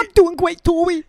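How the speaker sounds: put-on very high, loud tearful child; Jasper impression. Little cousin insisting he's fine, high loud mock-tearful voice. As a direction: imitate a kid bravely choking back sobs. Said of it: "he'd be trying not to cry".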